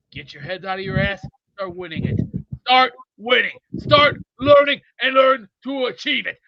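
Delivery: building to a shout on the last lines; halftime pep speech. Acted.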